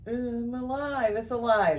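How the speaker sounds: mad doctor. Retold or imitated. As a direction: drag out the line like a mad scientist. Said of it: "the most famous line from Frankenstein".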